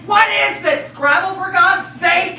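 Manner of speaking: high, heated protest; exasperated. Acted. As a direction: cut them off in exasperation. Fed up with word guessing.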